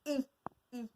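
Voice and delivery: "I" said alone, twice; isolated sound. Shown as a demonstration. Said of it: "on va enlever le".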